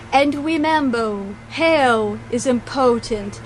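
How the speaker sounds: slow, lightly put-on weird accent of the TV host; half-hearted imitation of the host's weird accent, drawn out; mild weird accent. Quoting the show host's sign-off in a mild weird accent. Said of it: "'cause she has a weird accent".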